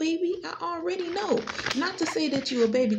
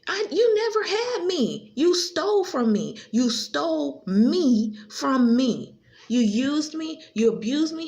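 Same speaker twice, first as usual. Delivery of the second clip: angry accusation; 3 semitones higher, 4 dB louder, slower than usual. Real, not acted. Accusing Kimberly of using her.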